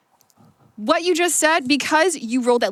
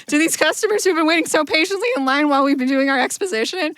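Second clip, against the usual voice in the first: high character voice; 4 semitones higher than usual. Acted. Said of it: "doing both voices at once".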